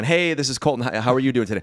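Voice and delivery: lightly upbeat cold-call hello; a touch of friendly sales cheer; smiling phone greeting. Acted. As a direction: greet a prospect with an audible smile. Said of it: "Smiling behind the phone".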